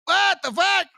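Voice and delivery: high-pitched incredulous what the fuck; stunned disbelief. Retold or imitated. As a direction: let it fly up in disbelief. Reacts to "you used to be black.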